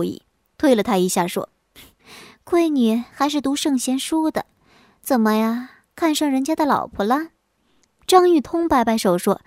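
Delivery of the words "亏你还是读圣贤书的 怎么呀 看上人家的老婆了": mildly jealous wife. Acted. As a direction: needle the husband with a touch of jealousy. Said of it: "听了不免有些醋". (带点醋意地数落丈夫)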